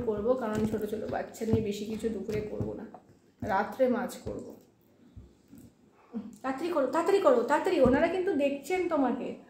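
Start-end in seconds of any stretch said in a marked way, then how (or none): 6.4-9.5 hurrying. Real, not acted. Mother hurrying child at meal.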